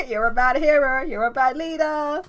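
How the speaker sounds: loud, high scolding rebuke. Acted. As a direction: tell him off, sharp and loud. Nova scolds Lars.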